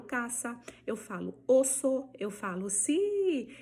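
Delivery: caça, osso, si all with voiceless S; Spanish S. Shown as a demonstration. Teacher giving examples without Z, clear S sounds. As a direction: keep a hissed S in caça, osso and si. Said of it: "essa característica que eu acabei de falar".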